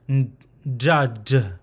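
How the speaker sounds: "ndud" slowly, led by a nasal N; nasal closed syllable. Shown as a demonstration. Teacher showing the closed syllable, slow nasal-onset pronunciation. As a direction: hold the N, then release "ndud". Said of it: "it'll be a nasal sound".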